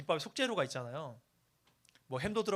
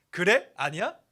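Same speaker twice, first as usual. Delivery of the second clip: mock Seoul dialect; 9 dB louder, slower than usual. Shown as a demonstration. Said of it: "이렇게 저 말 잘 쓰고 있어요".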